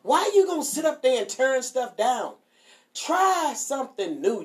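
mock scolding with slow, stretched words; mad dad. Dad scolds a child for refusing new food, mock mad. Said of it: "My daddy used to get mad".

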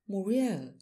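a sudden loud, high cry of her name; anguished cry. Acted. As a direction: call out the name in shock and grief. Husband sees wife's body.

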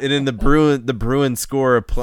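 excited. Acted. Building hyped Boston montage.

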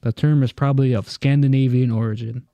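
even, measured read-aloud voice. Real, not acted. Host explains pigeon race timing to friends, reading aloud. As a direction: read it out like an encyclopedia entry. Reads out a definition.

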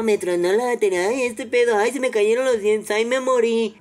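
mock complaint about a blown battery; mock whining. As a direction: whine it like a drama queen. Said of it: "mocking complainers".

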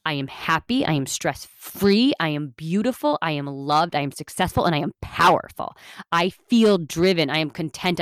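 each I am said with conviction, rising; passionate affirmation. Shown as a demonstration. Podcaster shows listeners a passionate affirmation, fervent. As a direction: declare it with passion. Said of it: "Do you hear the difference in my tone of voice".

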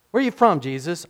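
high, loud demanding Pilate; Pilate asking. Retold or imitated. Pilate asking Jesus where he is from, high and loud.

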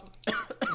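a single rough cough; chesty cough. Real, not acted. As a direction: cough into the mic. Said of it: "Sorry, I'm coughing in the microphone".

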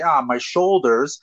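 slow with a pause before "shoulders"; hesitate, then say "shoulders". Shown as a demonstration. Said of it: "See, I paused there".

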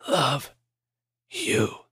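breathy weak rasp. Acted. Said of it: "he rasped".

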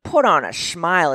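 lightly voiced patronizing old man; a touch of a smug Daddy Warbucks type. Old man in the store, lightly mocking. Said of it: "he's like".

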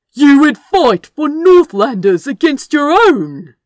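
loud, high demanding question. A narrator's reading. Leaguer demands Crow explain himself, loud and incredulous. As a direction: press him hard for an answer. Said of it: "Leaguer demanded".

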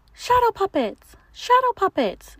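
very high squealing monster; squeaky monster. Acted. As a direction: squeak it out excitedly. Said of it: "she squeaked again".

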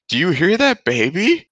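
calling out from the other room, half-hearted; a light imitated shout; retold shout. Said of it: "Nikki shouts from the other room".

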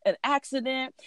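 reassuring. Retold or imitated. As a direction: talk someone down from a panic. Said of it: "they're trying to calm her down".

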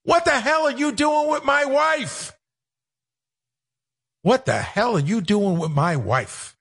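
drawn-out squawking comic outrage; hammed-up indignant husband impression; Gilbert Gottfried. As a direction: belt it out slowly in a put-on comedian voice. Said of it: "That's my, my big impression, my Gilbert".

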